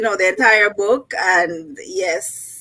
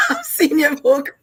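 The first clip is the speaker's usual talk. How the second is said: laughing; 7 semitones higher than usual. Real, not acted. Guest laughing at the host.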